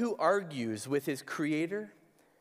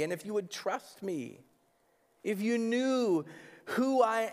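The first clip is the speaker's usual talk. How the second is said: God's gentle reply, pitched a bit higher; 4 semitones higher than usual. Retold or imitated. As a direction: reason kindly with a sulking child. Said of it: "God gently asks Jonah".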